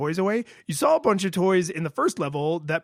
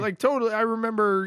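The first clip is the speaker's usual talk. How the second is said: higher-pitched, eager recognition; nostalgic excitement; 6 semitones higher, faster than usual. Retold or imitated. Player retelling how the childhood game came back, excitedly. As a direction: gush as the memory comes back.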